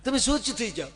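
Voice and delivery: calm him down like a fussing mother; soothing mother-in-law. Acted. Mother-in-law calms the son-in-law. (ઊંચા અવાજે સમજાવતી સાસુ)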